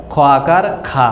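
খা with an open aa vowel; wrong Bangla reading. Shown as a demonstration. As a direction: say খ as খা, the mistaken way. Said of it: "সঠিক উচ্চারণটা হবে না".

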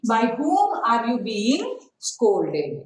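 slow, even model sentence; slow dictation. Shown as a demonstration. Teacher slowly modelling the changed sentence. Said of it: "This is how you have to change".

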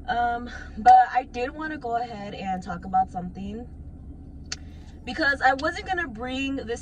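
talking while catching breath; breathless after dancing on stage. Real, not acted. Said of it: "I'm a little out of breath".

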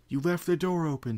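high, loud accusing rant; railing. Acted. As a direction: rail at her, blaming. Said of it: "Spike railed".

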